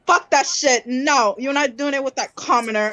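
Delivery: mock angry mother. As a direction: snap at the daughter like a harsh stepmother. Mother forbids the romance.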